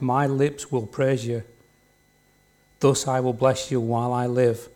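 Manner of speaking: solemn Bible reading to the congregation; scripture reading. Acted. Preacher reading a psalm aloud to the church, solemn. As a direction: read each phrase as a prayer.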